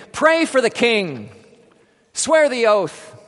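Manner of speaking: loud, slow soldiers' scream. Acted. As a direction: scream the order at her.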